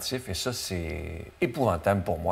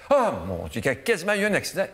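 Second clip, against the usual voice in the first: excited quote; 7 semitones higher, faster than usual. Retold or imitated. Driver's excited quote, pitch jump.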